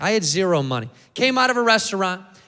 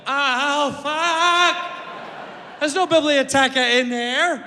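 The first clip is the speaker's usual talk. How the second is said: panicked Brad; 6 semitones higher, slower than usual. Retold or imitated.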